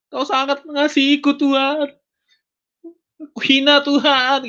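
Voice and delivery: high, wailing plea; anguished crying out. Retold or imitated. Believer confessing his lowliness to God, high anguished cry.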